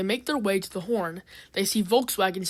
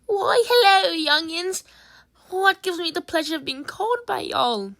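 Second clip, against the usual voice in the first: put-on old-timer voice; 10 semitones higher, 6 dB louder than usual. Old caller on the phone.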